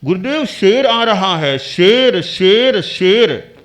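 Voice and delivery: urgent calling out. Acted. Disciple urgently warns his meditating guru, loud alarmed call. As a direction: shout a warning that a lion is coming.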